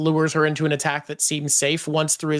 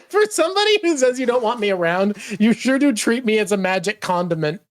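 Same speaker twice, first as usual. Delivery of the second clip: laughing Puck quote; 5 semitones higher than usual. Retold or imitated. Voicing Puck's complaint.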